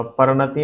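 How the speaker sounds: परिणति without its first i, par-nati; wrong pronunciation. Shown as a demonstration. Teacher showing a wrong form, परिणति as par-nati. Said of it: "परिणति नहीं होता".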